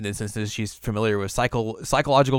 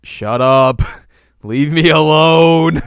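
mock angry snap; 5 semitones higher, 11 dB louder, much slower than usual. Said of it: "And she's like".

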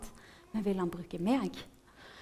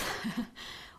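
soft breathy chuckle; brief hushed giggle; small laugh; 7 dB quieter than usual. Real, not acted. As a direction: laugh quietly to yourself. Small laugh after aside.

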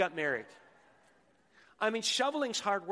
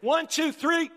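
really loud countdown; 9 semitones higher, 8 dB louder than usual. Real, not acted. Pastor urging the congregation to clap really loud, shouting the count. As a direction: shout the count much higher and louder. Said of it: "let's do it really loud".

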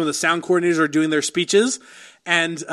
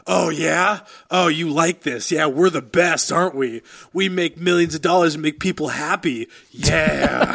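slow, sleazy, self-satisfied purr; mock smug seduction; smug self-praise. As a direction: croon it like Hollywood loving itself. Mocking self-congratulating Hollywood.

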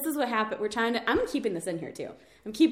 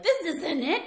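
higher, indignant audience cry; outraged heckler; 4 semitones higher than usual. Acted. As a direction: act out a fed-up theatergoer. Imagined angry audience outburst.

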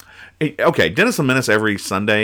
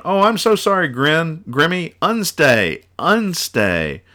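high, flustered, apologetic rush; mock panicked pet owner, pitched up; frantic apology; 8 semitones higher, slower than usual. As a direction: cry out sorry to the dog in a panic. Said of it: "she's going".

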